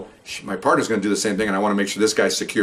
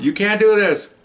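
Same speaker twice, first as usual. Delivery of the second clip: much higher, mock indignant protest; imitating protesting woman; 11 semitones higher, 4 dB louder, slower than usual. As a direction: squeal her protest up high. Woman spun around by officer.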